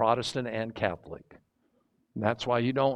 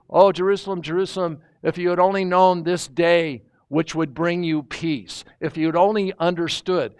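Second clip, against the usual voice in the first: Jesus weeping over Jerusalem; 4 semitones higher, 5 dB louder than usual. Retold or imitated. Jesus speaks to Jerusalem, a mild weeping lament. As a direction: plead with the city as if near tears. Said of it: "he begins to weep".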